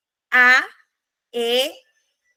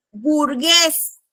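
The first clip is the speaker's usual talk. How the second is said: burgués with the final GUÉS struck firmly; stress on burGUÉS. Shown as a demonstration. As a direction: land on the last E of burgués. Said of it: "La entonación está en la E". (burgués con la última sílaba fuerte)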